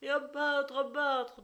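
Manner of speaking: high, loud repeated shriek; vociferating. Acted. Wife shrieking for a beating, high loud frantic yell. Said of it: "ne se lassait pas de vociférer".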